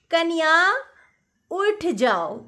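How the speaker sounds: sweet, coaxing wake-up call from below; loving call. Retold or imitated. Mother-in-law lovingly calling her new daughter-in-law awake. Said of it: "बड़े प्यार से बोलती थी".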